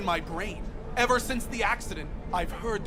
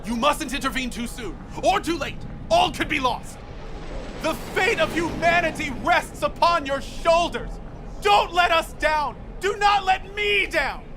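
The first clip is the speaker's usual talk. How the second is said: fervent plea building in urgency; zealous doomsayer's exhortation; impassioned warning; 3 semitones higher than usual. Acted. Fervent plea to save humanity.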